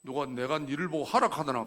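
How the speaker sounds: loud, stern rebuke as God. Retold or imitated. God answers the complaining elder, stern loud rebuke. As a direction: answer back forcefully as God. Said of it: "하나님의 음성이 들리는 거예요".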